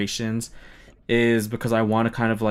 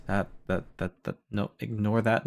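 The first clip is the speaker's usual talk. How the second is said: flustered mumble; 8 dB quieter than usual. Real, not acted. Hiding the naughty card game.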